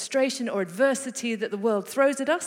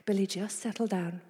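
understated patient dad voice; retold calm. Dad to screaming child in third aisle, retold calmly. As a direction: settle them with mild, even reassurance. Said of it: "really calmly".

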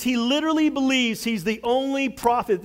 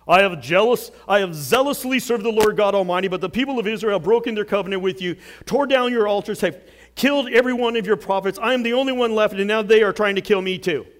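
self-pitying complaint; 4 dB louder, faster than usual. Retold or imitated. Elijah's self-pitying talking points.

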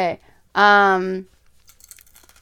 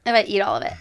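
whisper; faster than usual. Real, not acted. Whispered bet aside.

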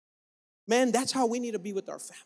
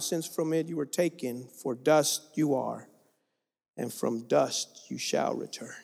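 scripture reading. Acted. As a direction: read the curse with solemn weight. Reads God's words to Adam.

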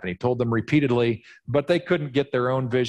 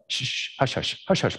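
hushing; 4 dB quieter than usual. Acted. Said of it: "They're like".

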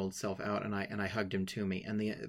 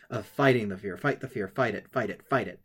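louder, insistent repeated fight; urgent self-push; 6 dB louder than usual. Retold or imitated. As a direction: push yourself on, hammering each fight. Retelling his urge to fight fear.

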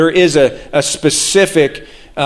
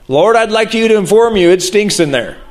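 mock-earnest, higher-pitched informing voice; practical Martha; 5 semitones higher than usual. Preacher jokes as Martha informing the Lord of the smell, mock-helpful. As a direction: start high as if helpfully pointing it out.

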